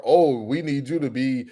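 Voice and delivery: mocking fans. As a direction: drag it out like a nostalgic fan. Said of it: "the expectations are".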